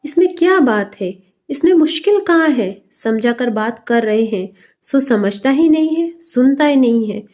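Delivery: father fed up with his son, angry scolding; irritated scolding. Acted. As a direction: scold the stubborn boy, fed up. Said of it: "बड़ा बुरा मालूम हुआ".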